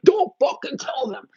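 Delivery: spooky spirit voice dragged out slowly; dark energy voice. Acted. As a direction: play the dark energy hissing a warning. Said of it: "dark energy tries to be like".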